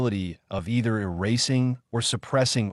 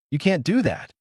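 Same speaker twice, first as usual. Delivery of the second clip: higher-pitched, furious protest; furious outburst; 7 semitones higher than usual. A narrator's reading. Naruto slams the desk and defies the Hokage, furious. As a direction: burst out in fury as fists hit the desk. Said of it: "in a rare show of fury".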